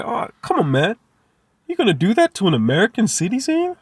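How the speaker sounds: The speaker mock-protesting in a bad American accent. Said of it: "That was a horrible accent".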